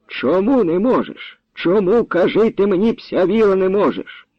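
high, insistent questioning; angry demand. Acted. Grandfather pressing lad who refuses, angry demand. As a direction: demand an answer, voice held high.

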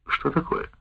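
usual speaking voice

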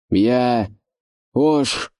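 громкий окрик, имя выше; выкрикни своё имя в горы; крик. A narrator's reading. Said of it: "крикнул Ош". (Ош кричит невидимым оркам своё имя, громко)

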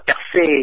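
French-style Perse; French pronunciation. Shown as a demonstration. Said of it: "tiếng Pháp là".

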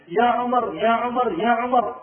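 put-on a boy shouting a name; calling out. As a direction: shout Omar back from afar. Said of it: "يصيح".

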